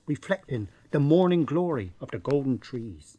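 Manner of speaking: hushed, lyrical landscape recital; poetry recital. Acted. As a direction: recite it like bad poetry from the library. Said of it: "reading the poetry".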